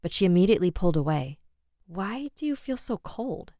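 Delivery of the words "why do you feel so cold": higher, softer, startled fear; recoiling from a cold touch; frightened question. Acted. Frightened wife pulls away.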